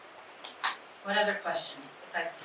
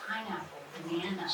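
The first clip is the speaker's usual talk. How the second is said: put-on quick fluent child. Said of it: "somebody that can rapid name will say".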